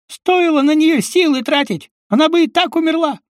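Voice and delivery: very high, squeaky contemptuous voice; disgusted sneer. Acted. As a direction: spit out "слюнтяй" with disgust. Uncle Kolya ranting.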